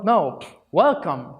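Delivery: corrected welcome. Shown as a demonstration. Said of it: "Hands should be higher than your elbow".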